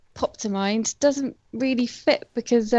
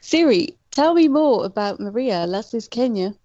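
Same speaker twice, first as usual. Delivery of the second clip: repeating to voice assistant. Real, not acted. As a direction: speak carefully to a phone. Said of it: "I can do it now".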